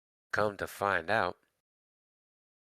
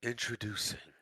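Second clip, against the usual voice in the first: announcer voice; 2 semitones higher, 6 dB quieter than usual. Shown as a demonstration. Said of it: "give me your best introducing line".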